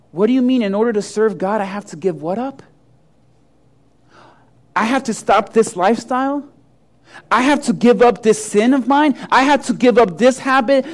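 questions rising in mild disbelief; mock incredulous. Pig Christian asking what serving God costs, mock incredulous. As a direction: balk at each demand as if questioning it.

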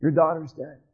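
very low, hushed, heavy announcement; grave bad news. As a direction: break terrible news softly, with long pauses. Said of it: "his friend comes behind him and said".

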